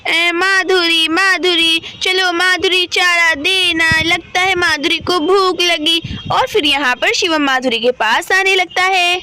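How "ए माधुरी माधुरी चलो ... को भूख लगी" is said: a hint of a child character, slowly drawn out; slow, measured story-boy voice, lightly done; lightly voiced little Shivam. Voices boy Shivam calling Madhuri. (हल्की-सी बच्चे शिवम की धीमी आवाज़)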